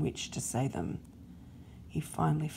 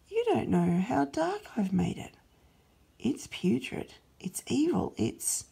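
higher, urgent, sinking to a whisper on how dark; pleading Satan; 5 semitones higher than usual. Acted. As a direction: argue desperately, then hiss secrets. Satan pleads against plan.

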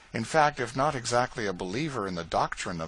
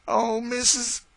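put-on much higher, louder voice of a frightened young servant; distressed Eliza; 7 dB louder, slower than usual. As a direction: cry out to her mistress in alarm. Eliza about to burst into tears.

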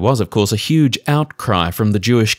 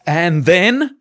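put-on Yiddish accent; 6 semitones higher than usual. Crowd asks.

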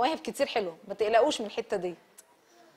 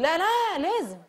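insistent quote; 5 semitones higher than usual. Retold or imitated. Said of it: "يقول".

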